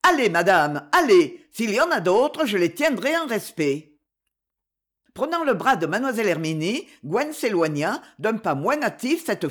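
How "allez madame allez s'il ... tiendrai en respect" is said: loud shouted urging; calling out. Acted. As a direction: call across the moor. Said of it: "Il cria à Gwen".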